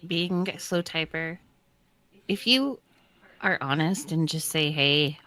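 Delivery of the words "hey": normal talking voice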